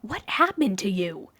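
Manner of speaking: slow, stunned splutter; shocked past self spluttering at his future. A narrator's reading. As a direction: caught off guard, words stumbling out. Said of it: "he spluttered".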